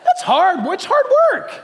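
a pastor crying out how hard prayer is; emphatic exclamation. Real, not acted. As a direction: exclaim it with comic exasperation. Preacher exclaims about prayer.

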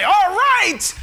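loud, high whoop of joy; cheering angels. Retold or imitated. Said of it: "the angels say".

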